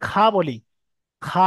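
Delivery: খা with the mouth wide open and long; খা drawn out, mouth open; open long kha. Shown as a demonstration. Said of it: "মুখটা হা হয়ে আছে এবং মুখটা লম্বা হয়ে আছে".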